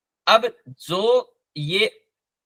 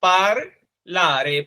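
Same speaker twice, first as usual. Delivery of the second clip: slow model reading; much slower than usual. Shown as a demonstration. Teacher repeating the word for the class, very slowly. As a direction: say पारलारे even more slowly, stretching each syllable. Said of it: "पारलारे का मतलब होता है".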